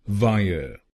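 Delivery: वायर said as "vaa-ye", two quick beats; correct two syllables. Shown as a demonstration. Teacher modelling the two syllables, careful pronunciation. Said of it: "इन दोनों शब्दांशों की pronunciation है वायर".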